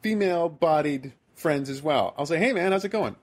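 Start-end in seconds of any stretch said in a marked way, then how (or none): 2.4-3.2 quoted breezy hello, pitched up; casual greeting. Retold or imitated. How he greets his friends, casual higher-pitched hello. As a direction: say it like your usual hello to friends.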